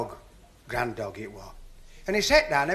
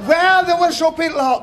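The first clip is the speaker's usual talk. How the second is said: louder, higher laughing line; 6 semitones higher, 5 dB louder than usual. Real, not acted. Comedian laughing at his own pub story. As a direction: push the words through a laugh.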